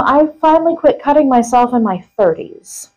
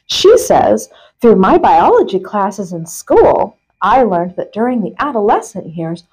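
measured reading with punched key words; article read-aloud. Acted. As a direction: read a printed article out with deliberate emphasis. Reads article aloud to co-host.

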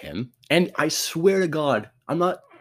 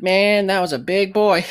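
lighter mock awe, a bit higher; a quicker retelling of the same awed remark; awed player; 6 semitones higher, 5 dB louder than usual. Tiny player to his buddy after getting up, light mock awe. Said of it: "he was like".

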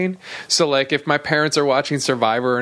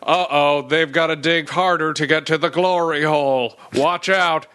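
mock announcer. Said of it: "doing the same announcer".

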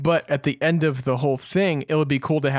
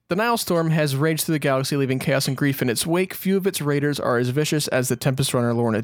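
a gently dramatic book-blurb read; lightly dramatic blurb reading; reading the blurb aloud. Acted. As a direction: read the back cover like a teaser. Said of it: "let me go ahead and read it for you".

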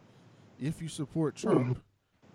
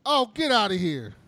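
a high, loud burst of disbelief; real shocked outcry; 7 semitones higher, 12 dB louder than usual. Real, not acted. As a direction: shout it like you can't believe the news. Disbelief at a news story.

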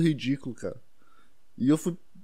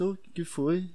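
sweet voice; 4 semitones higher, 5 dB quieter, slower than usual. Retold or imitated. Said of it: "perguntou com uma voz doce".

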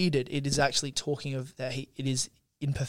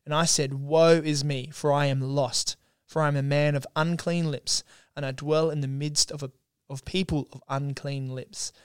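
Scripture reading. Acted. Co-host reads Isaiah's temple vision to listeners, measured Scripture reading. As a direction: read it out with deliberate pauses.

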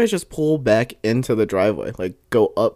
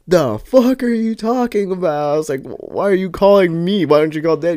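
irritated disbelief; 6 semitones higher than usual. Retold or imitated. Acts out irritated reply to Steven.

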